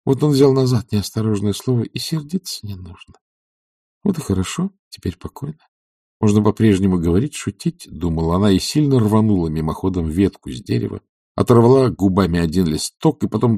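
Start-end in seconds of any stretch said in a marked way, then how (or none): none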